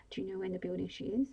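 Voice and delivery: quick, pressing ask of "Do you know where in the building she is?"; urgent question. Acted. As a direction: press the mother for an answer fast. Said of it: "Bella asked her urgently".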